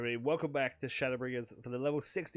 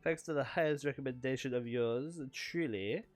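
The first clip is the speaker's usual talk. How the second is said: higher, hammy showman voice for the patron; flamboyant patron; 4 semitones higher than usual. Acted. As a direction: purr the praise like a vain, flirtatious host. Voices the patron character in cutscene.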